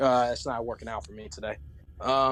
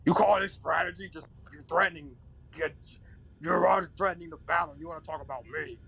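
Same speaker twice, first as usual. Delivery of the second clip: higher, faster exasperated objection; indignant companion; 6 semitones higher, faster than usual. Acted. Companion objecting to the angel's strategy, higher and exasperated. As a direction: argue back in disbelief.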